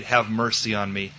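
low, subdued plea for mercy; humble plea. Acted. Bartimaeus asking the Son of David for mercy, humble. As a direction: let it drop, humbly. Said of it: "but in humility".

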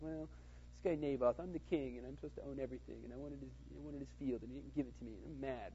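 soft, mildly sulky retelling; pouting whiner. Retold or imitated. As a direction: quietly grumble like a pouting king. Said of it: "He's kinda pouting at home".

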